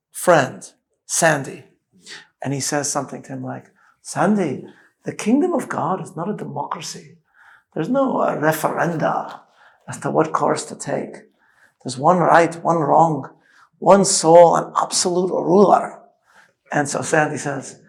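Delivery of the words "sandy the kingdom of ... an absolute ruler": put-on Scottish accent. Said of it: "Scottish accent, I'm pretty good at".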